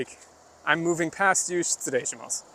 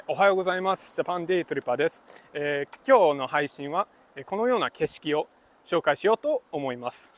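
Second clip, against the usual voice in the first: relaxed and bouncy, with a little more hop; easygoing friendly delivery, quicker and lighter; casual Japanese; faster than usual. Shown as a demonstration. Streamer greeting viewers casually, with a lighter, bouncier lilt. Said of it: "That's casual. So it's kind of like a little, there's a little more hop to it".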